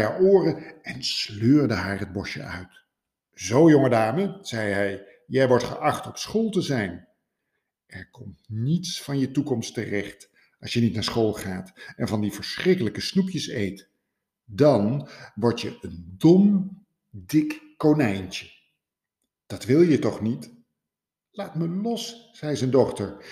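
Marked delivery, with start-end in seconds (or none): 3.3-20.5 stern father. Acted. Father scolding daughter. 21.3-22.3 put-on high, soft young rabbit voice; defiant daughter. Daughter telling her father to let go, high and soft.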